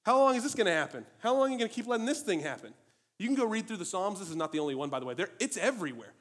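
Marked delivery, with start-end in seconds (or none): 0.0-2.7 high, loud desperate plea; crying out to God. Retold or imitated. David to God, high loud desperate cry. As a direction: cry out, demanding how long. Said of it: "he cries out to God".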